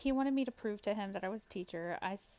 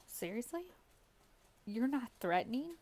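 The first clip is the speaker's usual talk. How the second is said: incredulous; 3 semitones higher than usual. Real, not acted. Gamer answering a player who denies making threats, incredulous. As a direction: echo it back as a doubtful question. Disbelieving reply to his denial.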